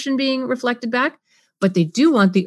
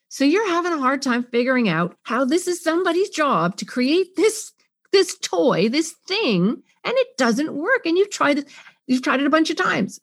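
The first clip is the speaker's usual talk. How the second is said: a touch higher, caring; empathetic paraphrase; 6 semitones higher than usual. Shown as a demonstration. Parent paraphrasing the child's frustration, caring. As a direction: reflect their struggle gently. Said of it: "I can paraphrase".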